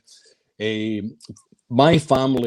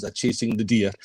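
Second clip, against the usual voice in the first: put-on French accent; 3 semitones lower than usual. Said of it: "in a very broad French accent".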